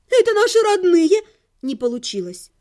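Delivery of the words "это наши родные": desperate cry. Acted. Countess protests in despair.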